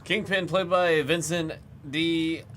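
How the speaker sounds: loud, high hype announcement; excited. Real, not acted. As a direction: shout the big pull. Hyped reveal of a big card.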